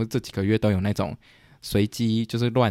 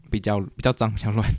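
voice cracking. Real, not acted. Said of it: "我刚说又破音".

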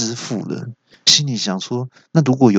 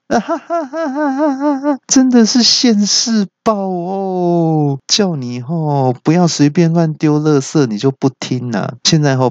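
mocking laugh; 5 semitones higher than usual. The kid mocking the monster who slipped on a banana peel, high cackle. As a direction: laugh at him, then scold.

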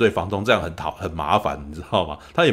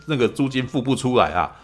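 kids mock complaint; 4 semitones higher than usual. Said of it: "然后他们就会在那边气啊".

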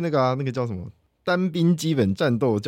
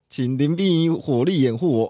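cover me shout; 2 semitones higher than usual. Shown as a demonstration. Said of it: "我们可以来一小段就好。".

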